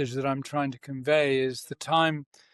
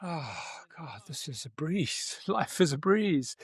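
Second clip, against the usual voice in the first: much softer, easygoing sigh that ends in a laugh; breezy relaxed sigh; 6 dB quieter than usual. Retold or imitated. Host imitating his relaxed self, soft and laughing. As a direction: let it out like life is easy, then chuckle. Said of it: "I'm like".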